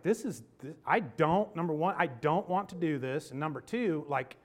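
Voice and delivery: retelling how mad he was, half-laughing; irritated rant. Retold or imitated. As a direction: vent the irritation. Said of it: "I was mad".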